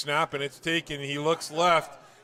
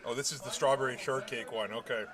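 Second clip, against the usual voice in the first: talking through a mouthful of cake; mouth full; 3 semitones lower, 4 dB quieter than usual. Real, not acted. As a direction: speak around a bite of food. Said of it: "Hard to do play-by-play with your mouth full".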